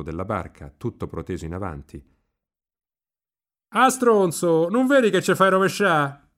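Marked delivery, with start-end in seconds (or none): 3.7-6.3 loud, high, drawn-out yell; angry scolding shout. A narrator's reading. Agnolo scolds Riccetto for rocking the boat, angry high shout. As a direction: yell a rough Roman rebuke.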